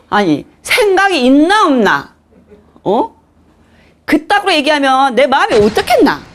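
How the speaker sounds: high-pitched, scolding Gangneung dialect; 강릉 사투리. Acted. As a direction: tell off a husband in Gangneung dialect. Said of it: "강릉 사투리를 한번 해볼게요". (강릉 사투리로 높게 따지는 말투)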